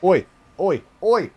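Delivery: high, loud sharp shouts; shooing yell. Real, not acted. Owner yelling to shoo his cat out, loud sharp shouts. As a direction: chase the cat off.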